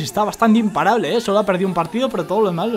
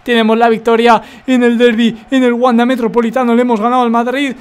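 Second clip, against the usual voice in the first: excited; 2 semitones higher, 5 dB louder than usual. Real, not acted. Celebrating the derby win.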